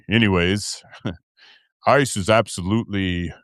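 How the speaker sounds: low put-on host voice; lightly held late-night host voice; sustained put-on deep voice. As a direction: keep the voice down low. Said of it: "I can do that voice for a long time".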